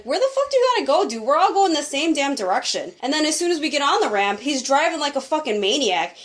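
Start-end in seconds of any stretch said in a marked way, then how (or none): 0.0-2.9 mock irate driver, higher pitch; quick, higher-pitched retold yell. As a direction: act out a driver yelling out the window. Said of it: "yelling out of the fucking window".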